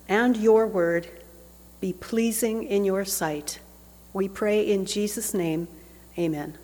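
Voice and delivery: opening prayer before the sermon. Acted. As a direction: pray aloud to the congregation, hushed at the close. Leads congregation in prayer.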